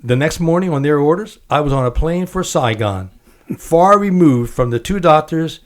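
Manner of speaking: measured book reading with acted quotes; reading aloud. Host reads guest's memoir aloud on air, quoting lightly. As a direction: read the memoir passage to the guest, lightly voicing each speaker.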